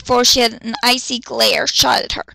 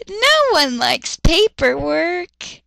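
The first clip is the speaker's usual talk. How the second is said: deadpan; 4 semitones higher, much slower than usual. Real, not acted. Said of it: "It's because it's paperwork".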